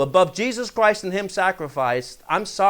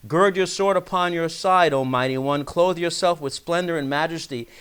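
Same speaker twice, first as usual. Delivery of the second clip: measured, solemn Bible reading; scripture reading; 2 semitones higher than usual. Acted. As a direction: read the psalm out to the congregation. Reads the psalm aloud.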